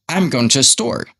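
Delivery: "store" emphasized, the other words shorter; stress on STORE. Shown as a demonstration. Teacher showing learners which word counts, emphasis on "store". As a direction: let "store" stand out clearly at the end. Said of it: "Store will be something I emphasize".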